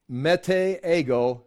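mete ego said slowly in Greek, "meh-tay eh-go"; slow Greek reading of mete ego. Shown as a demonstration. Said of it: "Mete is translated surely not".

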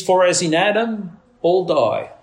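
reading scripture aloud. Shown as a demonstration. Preacher reads the verse to the congregation, measured scripture reading. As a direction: recite the verse with weight. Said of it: "the verse reads".

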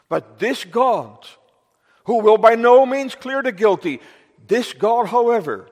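ringing pulpit declaration; proclaiming God's justice. Real, not acted. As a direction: lift the voice to proclaim who God is.

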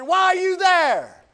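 high, loud, slow shout; thundering divine challenge; God's booming question. Acted. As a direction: call it out like God from on high.

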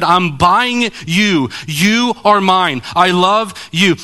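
slow, weighty proclamation of love; preacher voicing Christ, slow and emphatic; emphatic declaration. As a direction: declare it word by word, with conviction.

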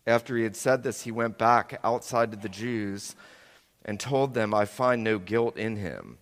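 measured, solemn Bible reading; scripture reading. Acted. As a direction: read the Gospel aloud to the congregation. Reads scripture aloud.

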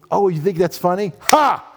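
playful challenge with a punched laugh-word; mock retort. Acts out striking back at mockers.

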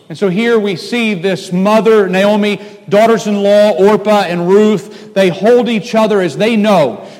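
full-force preaching. Acted. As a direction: drive the story home from the pulpit.

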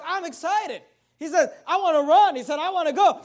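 eager excitement. Acted. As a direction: burst out like a man desperate to run. Voicing Ahimaaz's eagerness.

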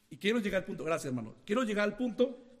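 stuffy nose from a cold; nasal voice. Real, not acted. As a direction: speak through a blocked, nasal nose. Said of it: "perdón, es que estoy con, con gripe".

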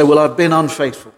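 casual, offhand admission; glib confession. Shown as a demonstration. Preacher mimicking a careless Christian's offhand confession. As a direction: toss it off lightly, no weight. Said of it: "Do you say that glibly?".

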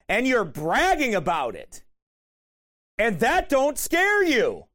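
rising, emphatic sermon delivery; forceful preaching. Real, not acted. Preacher confronting people living in sin, forceful preaching. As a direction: drive each accusation home from the pulpit.

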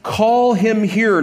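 slow, firm command; commanding call. Acted. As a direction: say it slowly, as an order. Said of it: "so it's a command".

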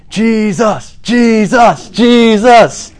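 charismatic shout, high and loud; shouting Jesus. Pretend. Preacher imagining himself in the crowd, shouting Jesus. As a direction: cry out his name like a fired-up worshipper. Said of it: "start shouting".

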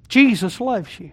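slowed and deliberate, JESUS leaned on; each word given its weight; slow emphatic. Acted. Preacher repeating it slowly to the congregation. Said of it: "Can I say that again?".

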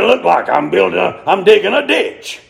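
put-on gruff old preacher voice; imitating a gruff, curt old man; Percy Ray. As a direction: growl it out gruffly. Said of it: "had an old gruff voice like that".

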